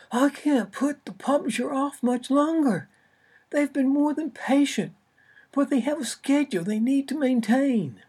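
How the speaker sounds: loud, high agent blasting down the line; loud over the phone. Acted. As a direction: blare it like an agent yelling on the phone. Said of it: "blasted through the line".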